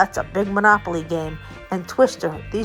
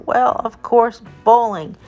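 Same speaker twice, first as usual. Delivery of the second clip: excited; 4 semitones higher, 4 dB louder than usual. Real, not acted. Announcing the main attraction.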